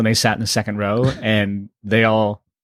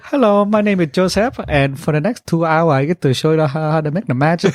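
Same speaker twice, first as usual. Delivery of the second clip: put-on lightly done Asian accent, a bit higher; 4 semitones higher than usual. Comedian opening his magic show, in a mild Asian accent. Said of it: "walk out with the Asian accent".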